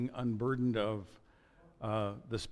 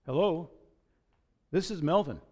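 calm; 7 semitones higher, 5 dB louder than usual. Acted. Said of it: "the father calmly said".

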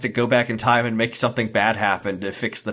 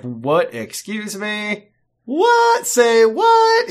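outraged disbelief; 10 semitones higher, 4 dB louder, much slower than usual. Retold or imitated. Racist man hearing Graham's threat, rising outraged disbelief. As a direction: pitch leaps way up, louder on each what. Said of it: "the guy's like".

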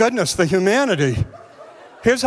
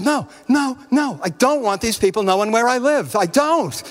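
high, whiny refusal; 4 semitones higher than usual. Retold or imitated. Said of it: "And I said".

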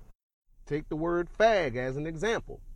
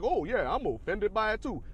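higher, swooping mock offence; mock bandwagon agreement; 5 semitones higher than usual. Everybody jumping on the bandwagon, mock offended agreement. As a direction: imitate someone eagerly joining the complaint. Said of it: "they're gonna be like".

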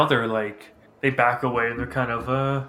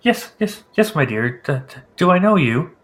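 put-on old priest voice; 4 semitones higher, 5 dB louder than usual.

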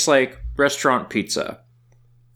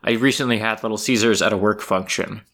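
talking through a mouthful; words round a bite of food; mouth full; 4 semitones lower than usual. Real, not acted. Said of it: "talking with my mouth full".

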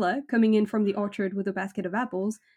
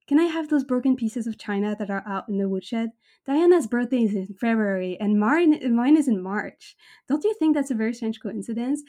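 put-on gushing girl. Anne's gushing speech read aloud.

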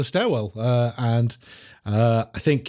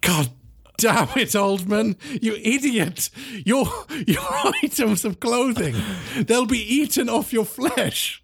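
exasperated scold; 8 semitones higher than usual. Acted. Agent berates undercover cop.

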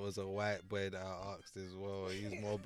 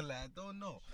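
put-on higher-pitched mafia accent; Italian-American mobster; 6 semitones higher than usual. British actor staying in character, Italian-American mobster. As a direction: shrug it off as a mafioso. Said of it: "I still got that Italian talk".

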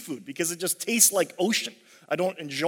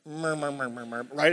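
murmuring sound; 4 semitones lower, 4 dB quieter than usual. Shown as a demonstration. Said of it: "Uh, onomatopoeia?".

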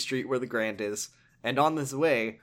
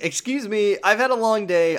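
tired protest; 7 semitones higher, 6 dB louder than usual. Retold or imitated. Majima protesting.

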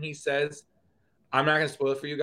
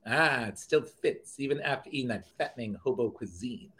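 Zap Brannigan. Retold or imitated. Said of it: "I just jump into my Zap Brannigan".

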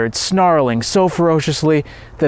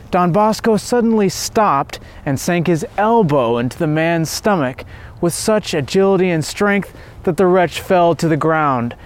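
ordinary delivery, nothing marked

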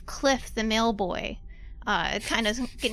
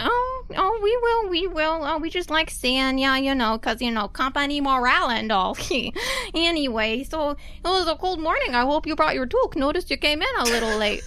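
put-on Canadian mail boy; 3 semitones higher than usual. GM voicing Cliff.

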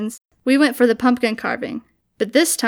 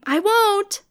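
scream laughing; 9 semitones higher than usual. Retold or imitated. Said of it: "And I'm scream laughing back".

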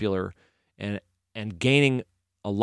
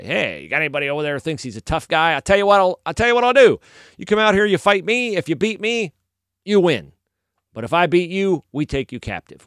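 higher, cocky mock yell across a valley; taunting yell; 5 semitones higher than usual. Goliath daring the Israelites to fight him, taunting yell. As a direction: call out a tough-guy challenge, half-shouted. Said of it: "he would yell across the valley".

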